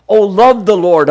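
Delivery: impassioned plea; fervent exhortation. Acted. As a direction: call out the psalm slowly with passion. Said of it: "psalm read with emphasis".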